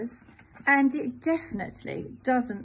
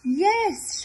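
eager shout, much louder and higher; 8 semitones higher, 9 dB louder than usual. Acted. Wolf shouts yes to the creature, loud and eager. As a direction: yell it out, too eager. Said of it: "shouts the wolf".

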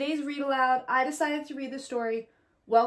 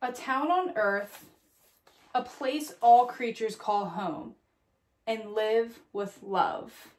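slow story ending; slower than usual. A narrator's reading. Closing lines of picture book.

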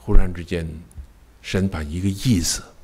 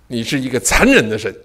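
mock anguished accusation; 4 semitones higher than usual. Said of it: "我一直大喊".

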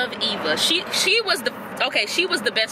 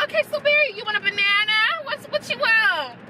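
mocking Iris; 10 semitones higher than usual. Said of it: "she's like".

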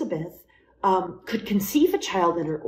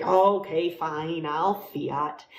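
grumbly; 4 semitones lower, slower than usual. Shown as a demonstration. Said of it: "it's not a grumbly prayer".

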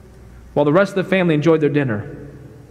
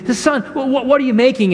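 a gentle father's question, pitched higher; sweetly asking; 7 semitones higher than usual. Acted. Father asks his little son what he makes, sweetly. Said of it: "He asked the child sweetly".

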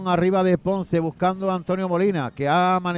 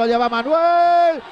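high, loud build-up; rising excitement; 5 semitones higher, 3 dB louder than usual. Real, not acted. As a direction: lift as he breaks clear. Striker through on goal.

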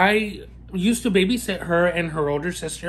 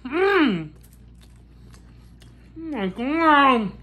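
high, slow, savoring oh my God; drawn-out delight; 8 semitones higher, much slower than usual. Real, not acted. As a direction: stretch it out in bliss.

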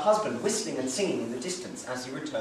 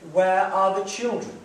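father asking; 4 semitones higher, 5 dB louder than usual. Acted. Father asks after children.

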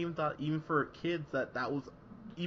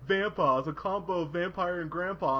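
mock movie pitch; 4 semitones higher than usual. Movie explaining the Vampa name, mild cheesy pitch. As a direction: sell the pun a bit. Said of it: "They were like".

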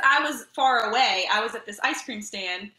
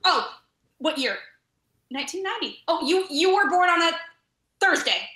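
put-on eager kid; 7 semitones higher, 4 dB louder than usual. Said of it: "they say to you".

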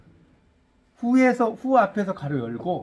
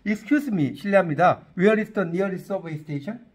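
slow English demo; 3 dB louder, much slower than usual. Shown as a demonstration. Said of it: "이렇게 물어봐".

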